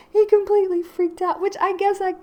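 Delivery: cracking up at the memory; laughing, high. Real, not acted. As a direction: voice jumps high through a laugh. Laughing while retelling friend's panic.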